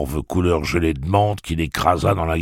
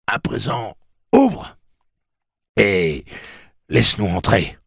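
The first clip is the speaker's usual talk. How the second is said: loud, raised-pitch boastful hollering; bragging, then ordering loudly; bawling; 6 semitones higher, 5 dB louder than usual. A narrator's reading. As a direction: call it out to someone behind a door. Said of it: "et brailla".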